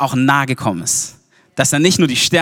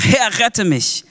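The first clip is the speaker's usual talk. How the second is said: crying out; 7 semitones higher, much slower than usual. A narrator's reading. Peter calls to Jesus as he sinks, crying out. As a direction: call out slowly on a raised pitch. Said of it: "schrie er und sprach".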